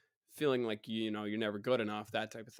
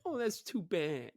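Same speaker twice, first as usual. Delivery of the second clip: slow, higher mock pity; mocking sympathy; 6 semitones higher than usual. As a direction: drag it out in fake sympathy. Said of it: "mock me like that".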